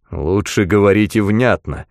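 plain reading voice

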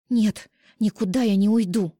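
fierce, deliberate no; defiant. A narrator's reading. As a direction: dig in your heels. Flashing eyes, fists clenched.

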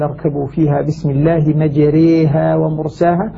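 مجريها said "majréha", long e after the ra; full imala on مجريها. Shown as a demonstration. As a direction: recite with مجريها tilted toward ya, ومرساها left open. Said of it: "حفص هنا يميلها إمالة كبرى".

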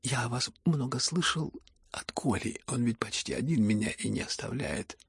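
soft, breathless near-whisper; whispering weakly. Acted. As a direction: speak with the last of his strength. Тихий умирающий Ипполит. (слабый шёпот)

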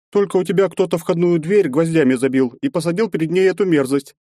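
a hint of a disgusted older woman; woman's voice, disgusted. Marya Ivanovna complains.

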